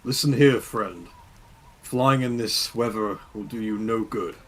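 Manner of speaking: loud, slow, commanding call; booming voice. Acted. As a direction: call out to him with a big voice. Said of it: "with his booming voice".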